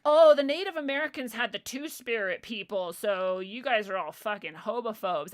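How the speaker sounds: mock a self-righteous accuser; mocking quote. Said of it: "listen to yourself".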